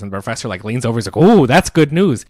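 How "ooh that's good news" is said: drawn-out, high, loud gloating; big slow coo of pleasure; mock delight. Professor hears the oven pitch, hammed-up delight.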